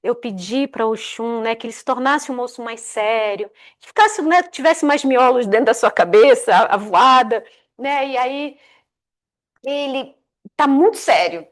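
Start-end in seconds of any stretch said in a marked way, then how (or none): 0.0-8.1 desperate mother. Retold or imitated. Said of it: "A mãe dela fica desesperada".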